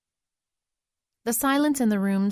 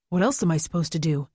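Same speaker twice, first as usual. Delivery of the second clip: demanding; faster than usual. Acted. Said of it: "Alex demanded".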